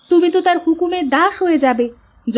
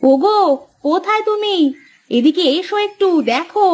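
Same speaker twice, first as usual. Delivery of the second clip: calling out; 5 semitones higher than usual. Acted. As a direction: call out for your husband, excited. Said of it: "এত চেঁচাচ্ছ কেন?".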